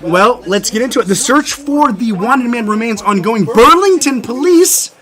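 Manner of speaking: slow, loud breaking-news read; news anchor. Acted. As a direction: announce it like a TV anchor.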